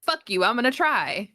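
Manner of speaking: high mocking snooty voice; mocking a rude suitor; mock Robert Pattinson. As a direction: sneer it out high and whiny. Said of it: "He was like".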